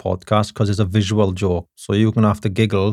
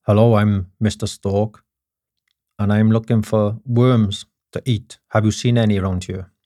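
lightly voiced stork. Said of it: "The stork says".

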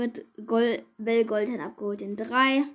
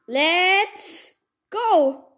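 high shrieks of pure joy; shrieking jackpot winner; 7 semitones higher, 7 dB louder, slower than usual. Real, not acted. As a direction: shriek like you hit the jackpot. Unlocking the brawler, shrieking.

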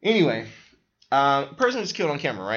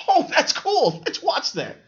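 much higher and louder, giggling through it; laughing mock enthusiasm; 13 semitones higher, 6 dB louder than usual. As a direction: laugh out a goofy fake delight. Mocking party guy's reaction.

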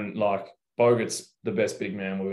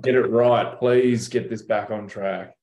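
louder, slowing plea; mock exasperation; 5 dB louder, slower than usual. Player retelling his reply to stranger, exasperated plea. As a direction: plead in retold exasperation, dragging the end.

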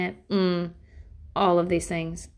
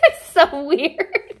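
mock amazement; 7 semitones higher, 5 dB louder, much slower than usual. Mock amazed exclamation, laughing.

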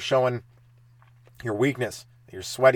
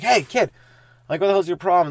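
higher, louder mock challenge; angry confrontation; 7 semitones higher, 5 dB louder than usual. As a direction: call the kid out, hammed up. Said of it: "I'm like".

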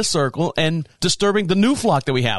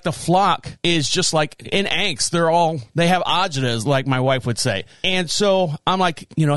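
ordinary delivery

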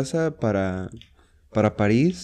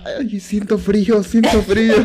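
high, slow, singsong whimper; sick girl on the carousel, high slow singsong whine; whiny girl; 9 semitones higher, 5 dB louder, slower than usual. Retold or imitated. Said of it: "Y la niña".

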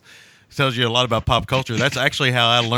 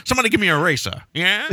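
cigar in mouth; 8 semitones higher, faster than usual. Pretend. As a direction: bark it like a tough guy chomping a cigar. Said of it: "got a cigar in your mouth".

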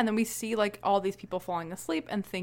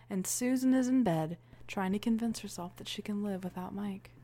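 whisper; 6 dB quieter than usual. Acted. Describing sleepers' lies.

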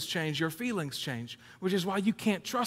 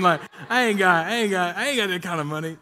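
emphatic protest; 7 dB louder than usual. Real, not acted. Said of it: "You know what I'm saying?".

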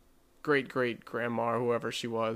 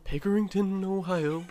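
announcer voice; 7 semitones higher than usual. Pretend. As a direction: announce your hometown like a ring introduction. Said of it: "Good announcer voice".

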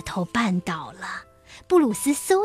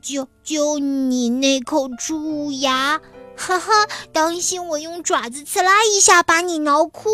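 mocking mouse; 5 semitones higher, 3 dB louder than usual. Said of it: "两只小老鼠吵了起来".

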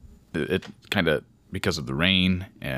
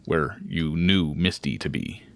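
game master narration. A narrator's reading. GM narrates scene.

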